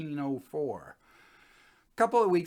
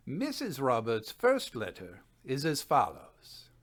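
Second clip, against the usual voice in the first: louder, measured reading of a learned paper; formal report reading; 5 dB louder than usual. Acted. Physicist presenting his haunted house report, formal and louder. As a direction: read the findings aloud like a Victorian scientist.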